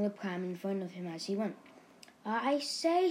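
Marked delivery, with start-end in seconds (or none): 2.3-3.1 high, loud exclamation of triumph; jubilant, raised voice; triumphant. A narrator's reading. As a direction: exclaim it with proud delight. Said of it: "said Tony triumphantly".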